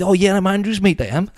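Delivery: very high, loud sing-song Welsh imitation; hammed-up Welsh introduction; Welsh accent. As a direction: put on a lilting Welsh accent, pitched right up. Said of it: "Welsh accent".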